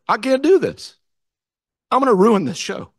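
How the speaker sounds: mock tearful child pleading he'll ruin it; imitating a crying boy. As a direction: voice the scared kid near tears. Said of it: "he broke down and he was crying".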